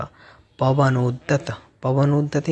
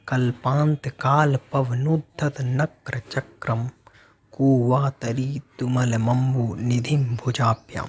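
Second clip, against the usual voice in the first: slow, measured Sanskrit verse recitation; deliberate scriptural reading with drawn-out syllables; shloka recitation. Shown as a demonstration. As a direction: recite the verse slowly, word by word. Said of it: "पहले इसका उच्चारण करते हैं".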